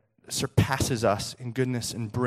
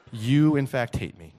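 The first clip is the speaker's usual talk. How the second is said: mock teary son; 2 semitones lower, slower than usual. Son concluding that dad hates him, mock heartbroken. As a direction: let the hurt accusation die away. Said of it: "he gets a little teary-eyed".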